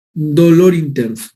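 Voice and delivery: slow emphasis. Shown as a demonstration. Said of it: "key sign stressed".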